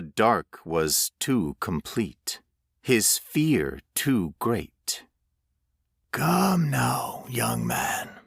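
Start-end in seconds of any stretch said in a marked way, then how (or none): 6.1-8.2 a hint of a coaxing stranger. A narrator's reading. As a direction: call him back calmly. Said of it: "the stranger said".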